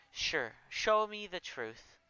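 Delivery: slow, self-assured challenge; confident. Acted. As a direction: take your time, sure you're right. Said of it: "he says confidently".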